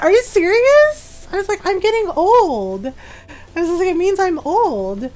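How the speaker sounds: can't believe what she's hearing; laughing disbelief. Retold or imitated. To Ron calling her gray streak hot, laughing disbelief. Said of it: "I just started laughing".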